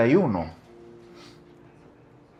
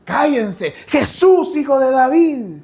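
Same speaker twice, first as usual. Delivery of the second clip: high, loud desperate cry; calling out; 11 semitones higher, 6 dB louder, slower than usual. Retold or imitated. Blind men shouting to Jesus over the crowd, high loud cry. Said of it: "¿Qué pensaron?".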